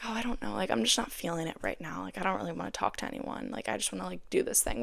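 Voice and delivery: half-hearted, not in the mood to talk; mild reluctant mumble. Retold or imitated. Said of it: "when I feel that way".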